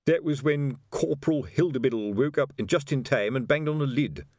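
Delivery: lightly voiced storytelling sergeant; old copper telling an anecdote; reminiscing sergeant. A narrator's reading.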